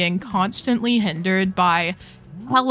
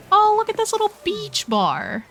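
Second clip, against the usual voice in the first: delighted squeal; 12 semitones higher than usual. Real, not acted. Delighted discovery.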